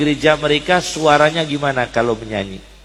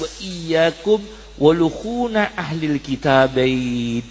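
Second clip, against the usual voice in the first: slow, deliberate Arabic quotation; slow hadith recitation; 2 semitones lower, slower than usual. Acted. Preacher quotes the Prophet's warning to listeners, slow and deliberate. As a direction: lay out the warning word by word. Quoted after "dengan tegas.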